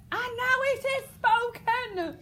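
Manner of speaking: slow, very high and loud cry; freaky outburst. Shown as a demonstration. King losing his temper at the girl, slow wild cry. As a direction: let it erupt, drawn out and wild. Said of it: "proper freaky out".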